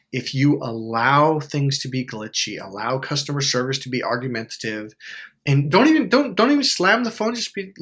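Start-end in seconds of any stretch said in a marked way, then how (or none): 5.5-7.7 louder, higher, pressing; emphatic louder plea. Real, not acted. Urging viewers not to slam the phone, emphatic. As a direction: push the point hard. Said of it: "urging viewers".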